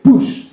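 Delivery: spoken smash of a breaking window; imitated shattering. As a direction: mimic the glass going. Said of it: "It's just like".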